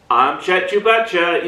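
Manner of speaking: a hint of a TV news anchor. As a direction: lightly read it like the evening news. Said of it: "the news anchor voice".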